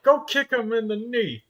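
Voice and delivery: high, loud mock command; imitated order to a little sister; bossy big sister order. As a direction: bark it like a bossy older sibling. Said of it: "I'm like".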